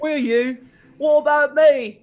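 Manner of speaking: jealous rival suitor. Acted.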